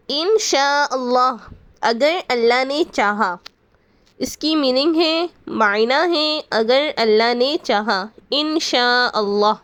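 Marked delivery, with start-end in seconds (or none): 0.1-1.4 انشاءاللہ said slowly as in-sha-al-lah with a doubled l; careful pronunciation. Shown as a demonstration. Teacher to viewers, showing how to say it, slow and careful. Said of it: "ہمیں کس طرح بولنا چاہیے". 8.3-9.5 انشاءاللہ drawn out slowly with a long aa; careful pronunciation. Shown as a demonstration. Teacher to viewers, repeating the right way, slowly. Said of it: "ہمیں کس طرح بولنا چاہیے".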